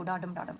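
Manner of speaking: "डा डम" low and soft, like a heartbeat; heartbeat rhythm. Shown as a demonstration. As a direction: softly pulse "डा डम", weight on "डम". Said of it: "represent करेगा आपकी heart beat को".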